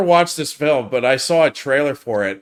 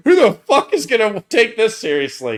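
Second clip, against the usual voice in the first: put-on girly voice; 8 semitones higher, 6 dB louder than usual. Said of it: "that trailer going".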